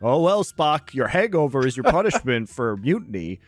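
casual, offhand admiral voice; breezy admiral. Retold or imitated. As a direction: shrug it off like an easygoing boss. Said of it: "Admiral April just saying".

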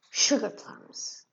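slow, sniffing little mouse. Acted.

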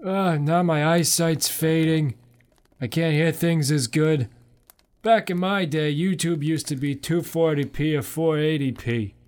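lightly voiced grumpy old man; a hint of a creaky grandpa, slowed. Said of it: "I'm just gonna use my old man voice".

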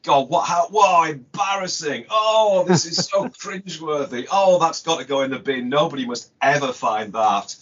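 put-on mortified teenage groan over old work; cringing embarrassment. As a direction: cringe hard at your own childish writing. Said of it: "and you start to think".

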